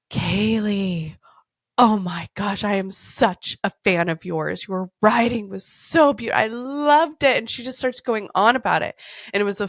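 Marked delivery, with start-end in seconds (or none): 0.1-7.4 Retold or imitated. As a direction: imitate an adoring colleague, stretching the praise. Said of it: "Australian accents are just the best".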